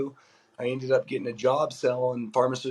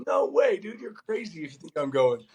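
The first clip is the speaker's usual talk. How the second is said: emphatic refusal; 5 semitones higher than usual. Retold or imitated. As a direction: laugh off the idea as crazy. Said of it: "I go".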